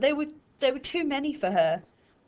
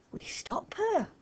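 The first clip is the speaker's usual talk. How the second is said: hissed; 10 semitones higher, 7 dB quieter than usual. A narrator's reading. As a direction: hiss it through the teeth, urgent. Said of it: "hissed Gary".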